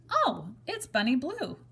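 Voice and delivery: dog voice. Acted. Blackie the dog speaks.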